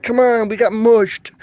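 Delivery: high, drawn-out mock complaint; imitated losing gamblers. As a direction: wail it like a gambler whose bet just died. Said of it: "They're like".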